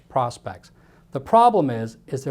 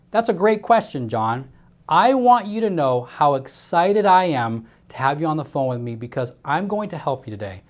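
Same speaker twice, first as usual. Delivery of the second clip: enthusiastic; 2 semitones higher, 3 dB louder than usual. Shown as a demonstration. Sales rep greeting a prospect on the phone, enthusiastic. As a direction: gush with eagerness to help. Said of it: "Do you feel that enthusiasm in that sentence?".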